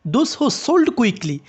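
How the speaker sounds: slow demo, stress on "sold quickly"; rising intonation demo. Shown as a demonstration. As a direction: lift "sold" and carry "quickly" along with it. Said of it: "এই সোল্ড কুইকলির মধ্যে আমরা কি rising intonation করলাম".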